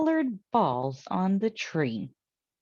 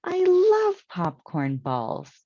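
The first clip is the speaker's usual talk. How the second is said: louder, slow delighted call; joyful shout; 5 dB louder than usual. Acted. Aunt Myra, delighted by the tree, calls out louder and slow. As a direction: exclaim with glee. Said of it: "shouted Aunt Myra".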